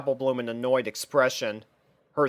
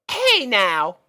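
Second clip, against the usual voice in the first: scolding; 8 semitones higher, 5 dB louder than usual. Acted. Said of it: "scolded Apple Bloom".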